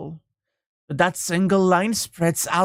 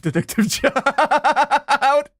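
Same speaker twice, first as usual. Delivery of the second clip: sinister villain; 6 semitones higher, much slower than usual. Acted. Villain reveals hidden presence.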